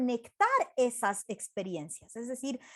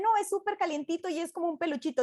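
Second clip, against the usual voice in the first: higher-pitched mock disagreement; arguing; 5 semitones higher than usual. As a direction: counter the last speaker in an acted squabble. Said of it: "discutían como".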